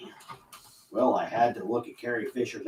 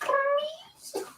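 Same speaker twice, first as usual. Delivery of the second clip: very high cartoon plea; Roger Rabbit. Man attempting a cartoon rabbit's plea, very high squeak. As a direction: beg in a squeaky, badly faked cartoon voice. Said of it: "I can't do a Roger Rabbit voice".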